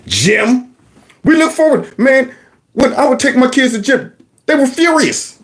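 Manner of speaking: ordinary talk, nothing marked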